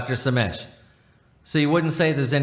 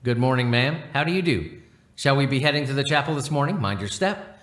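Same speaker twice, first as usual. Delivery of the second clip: lightly put-on posh English accent; a hint of upper-class English manners; mild posh English accent, courteous. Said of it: "Eleven fifty-six affects a posh accent".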